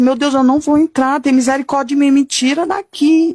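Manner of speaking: mild mock yell, pitch climbing to the end; retold pleading cry. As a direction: retell a frightened plea, voice rising but not shouting. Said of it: "Eu gritava".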